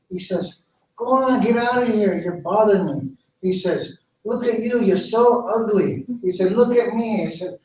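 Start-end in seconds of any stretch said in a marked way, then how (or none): 1.0-3.1 mildly annoyed, pitched higher; dismissive. Acted. Dogwood shoos the injured bird away, mildly dismissive. 4.2-6.1 higher, mildly scornful, last words drawn out; lightly acted vain tree looking down on someone; haughty insult. Dogwood insults the little bird, mildly scornful. 6.5-7.3 higher, lightly acted vanity; boastful. Dogwood shows off to the little bird, mildly boastful.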